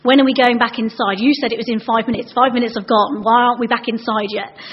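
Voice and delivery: lightly imitated pestering pupil; mildly indignant child's questioning. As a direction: press with one demand after another. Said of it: "This child would always be asking".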